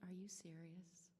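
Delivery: slow, breathless whisper of disbelief; stunned whisper. Retold or imitated. Teen girl whispering in awe at the praise. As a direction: hush it out in amazement.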